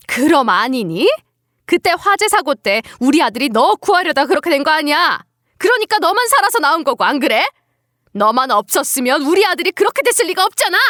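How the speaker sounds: mother-in-law laying blame; angry, pressing accusation; accusing mother-in-law. Acted. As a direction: accuse her with mounting bitterness.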